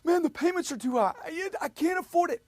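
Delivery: mock a worked-up buyer protesting; emotional customer. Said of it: "They're getting all".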